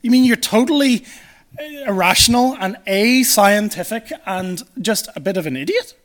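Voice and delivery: imitating a scornful, incredulous classmate; mock disdain, easing off at the end; disdainful incredulity. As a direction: act out mock disbelief, starting high and loud. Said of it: "look at you with utter disdain and incredulity".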